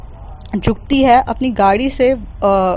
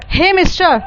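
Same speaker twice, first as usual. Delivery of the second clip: angry call; 6 semitones higher than usual. Acted. Mehar confronts reckless driver.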